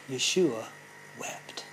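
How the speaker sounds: quiet solemn reading of the verse; hushed reading. Acted. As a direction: let it fall to a near hush. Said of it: "preacher drops voice on key verse".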